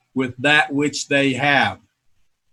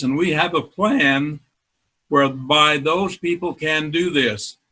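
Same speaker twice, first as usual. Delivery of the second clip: slow, moved, voice slightly choked; emotional. Real, not acted. Founder recalling his dream to Jason, slowly and emotionally. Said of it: "now I'm getting emotional".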